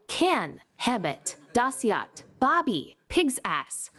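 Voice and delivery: clipped Manglish, short choppy words; Malaysian English accent. Pretend. Comedian shows off the Manglish accent he taught, Malaysian English accent. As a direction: chop every sentence down Malaysian style. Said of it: "a very sexy Malaysian English accent".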